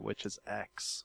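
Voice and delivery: hushed secret reveal; whispering. Pretend. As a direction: drop to a breathy secret whisper. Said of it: "so be quiet so I can tell you the secret".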